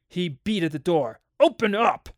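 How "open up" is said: high, loud demand; urgent shout. A narrator's reading. Father beating at the locked door, urgent shout.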